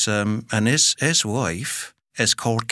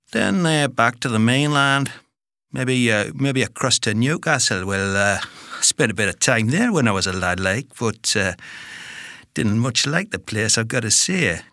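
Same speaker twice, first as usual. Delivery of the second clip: put-on Geordie accent. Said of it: "have a stab at most British accents".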